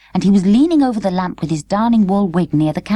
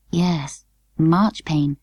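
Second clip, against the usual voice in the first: slowly; 2 semitones lower, much slower than usual. Acted. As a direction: draw it out reluctantly. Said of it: "said Emily slowly".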